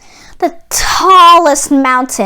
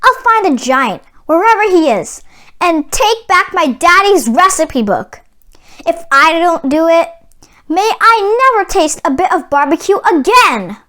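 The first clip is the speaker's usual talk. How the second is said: solemn vow; 3 semitones higher than usual. Acted. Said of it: "Jack made a vow".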